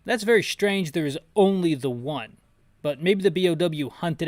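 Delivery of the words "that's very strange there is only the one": normal talking voice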